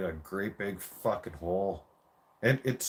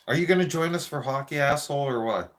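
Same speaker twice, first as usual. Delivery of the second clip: mocking taunt; 5 semitones higher, 3 dB louder, faster than usual. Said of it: "we're like".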